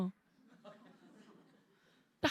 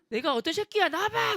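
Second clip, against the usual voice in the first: angry challenge; 7 semitones higher than usual. Retold or imitated. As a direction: demand who said it.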